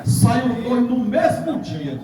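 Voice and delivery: imitating a solemn pronouncement; retold prophetic declaration. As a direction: stretch each word out like a prophecy. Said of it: "Aí ele foi e disse assim".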